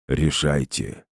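low, slow distorted machine command; distorted robot voice. Acted. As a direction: order it like a failing robot titan. Titan's final command.

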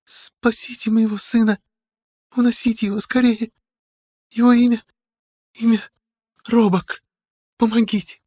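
choking on blood, gasping pleas; gasping and gurgling. Acted. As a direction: gurgle through dying words. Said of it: "булькая и задыхаясь".

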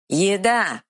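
simple troll naming food. Acted. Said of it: "ответил Эр".

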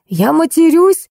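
slow, high, offended question; incredulous. A narrator's reading. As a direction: query it slowly in disbelief. Accused man answers in disbelief. (медленно, с высоким недоумением)

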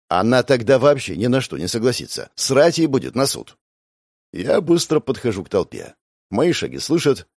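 ordinary delivery

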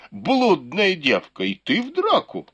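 put-on sharp drunken shout, rising high at the end; пьяный окрик. A narrator's reading. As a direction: yell it at her, voice jumping up. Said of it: "закричал". (резкий пьяный окрик с взлётом вверх)

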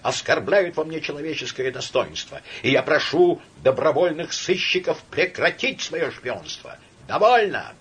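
high, loud, near-screaming rant; hysterical outburst. Acted. Laevsky in hysterics at his friend Samoylenko. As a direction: spill it all out in hysterics.

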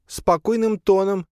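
put-on high, slow spider girl; drawn-out squeaky excuse. Spider justifies herself. (высокий медленный голосок)

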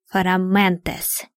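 slow, strange-voiced incantation word; spell cry. A narrator's reading. Dark witch striking James with the knife, slow spell word. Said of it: "выкрикнула Тёмная".

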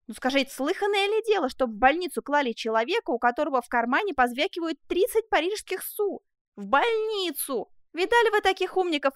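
indignant yelling. Acted. Prisoner runs off protesting the hospital, indignant yell. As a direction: rant in loud, offended protest. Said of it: "заорал Жак".

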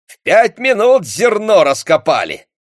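high loud bragging; proud boast. A narrator's reading. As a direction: crow about quick find. Akim boasting. (хвастливо, громко)

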